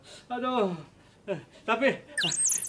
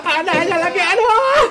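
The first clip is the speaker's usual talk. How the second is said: higher, louder pained wailing; toothache groaning; 4 semitones higher, 3 dB louder, slower than usual. Acted. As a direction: wail through the toothache. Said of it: "gua lagi sakit gigi nih". (merintih keras karena sakit gigi)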